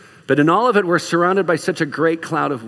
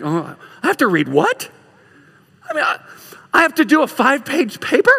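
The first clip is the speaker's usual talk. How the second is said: panicked student; 10 semitones higher than usual. Acted. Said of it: "you're terrified".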